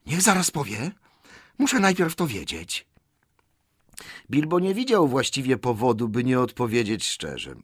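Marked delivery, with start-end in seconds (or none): 0.1-2.9 high-pitched creature voice; hissing demand. A narrator's reading. Gollum must know first, hissing demand. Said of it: "odezwał się ostry syk".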